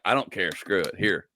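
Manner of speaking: low, offhand give-up; acted resignation. Comic giving up on picking a video, low and dismissive. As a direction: toss it off low, as if done caring.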